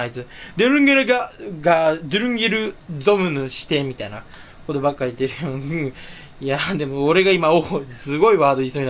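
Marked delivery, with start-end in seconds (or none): 0.6-3.5 mock Koike gibberish. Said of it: "小池百合子とかもよくわかんねえじゃん".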